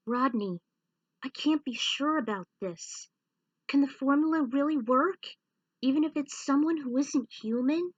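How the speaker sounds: doubting aloud whether it works; worried friend. Acted. Friend asking Rodney if the formula works, lightly voiced and anxious. Character voice in narrated story.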